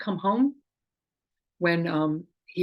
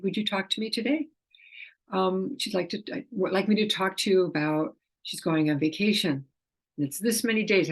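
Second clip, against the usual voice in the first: talking to the animal. Shown as a demonstration. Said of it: "That's how I talk".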